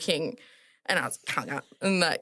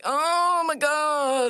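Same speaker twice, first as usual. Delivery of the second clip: loud, high gasp of disbelief; shocked; 11 semitones higher, 4 dB louder, much slower than usual. Retold or imitated. Nurse realising the coronation invite is genuine, loud and shocked. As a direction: it suddenly hits you that it's real. Realising the call was real.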